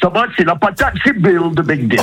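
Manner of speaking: high cheerful character voice; Bill voice. Acted. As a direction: introduce yourself as Bill. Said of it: "prendre une autre voix comme vous avez fait".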